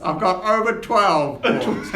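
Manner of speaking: slow, proud little gnome. Acted. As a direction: brag slowly like a gnome. Gnome Corks bragging.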